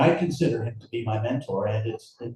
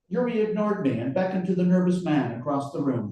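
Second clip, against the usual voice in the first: brisk, raised-pitch narration; story narration; 7 semitones higher, faster than usual. A narrator's reading. Author reading the scene to an audience, brisk narration. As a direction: move the story along quickly. Reads his novel aloud.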